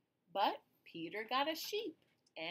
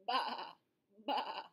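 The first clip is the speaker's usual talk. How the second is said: bleating sheep sound; sheep baa. Shown as a demonstration. Teacher showing children the sheep sound, bleating. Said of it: "How about the sheep?".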